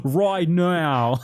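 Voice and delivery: high, loud laughing words. Real, not acted. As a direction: talk through laughter. Laughing at the Aussie joke.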